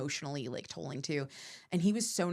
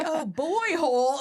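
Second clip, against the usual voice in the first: high, loud and drawn out; hammed-up joke call; mock hollering; 11 semitones higher, 7 dB louder, slower than usual. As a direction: holler the catchphrase slowly, up high. Imitating comics shouting the inside joke.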